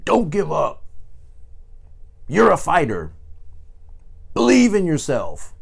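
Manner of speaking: lightly voiced motivational coach, pushing the listener on; imitating motivational yelling. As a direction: playfully imitate a hype speaker yelling encouragement. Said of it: "somebody's yelling at you".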